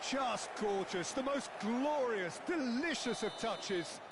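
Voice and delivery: slow, emphatic relish on each word; savouring admiration. Real, not acted. Commentator praising the touch after the goal, savouring it. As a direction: linger over every admiring word.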